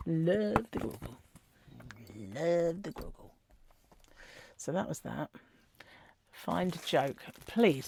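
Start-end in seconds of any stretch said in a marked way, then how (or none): 0.1-3.3 cooing fondness. Real, not acted. Cooing over cute Grogu picture.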